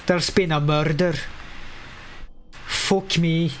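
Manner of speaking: put-on a light Scottish accent, quick line. Gamer showing off his voices, light Scottish accent. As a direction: toss off a Scottish detective line. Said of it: "So I can do Scottish".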